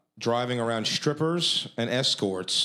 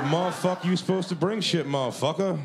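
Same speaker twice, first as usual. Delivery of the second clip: drill sergeant; 6 semitones higher than usual. Retold or imitated. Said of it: "Sir, yes, sir".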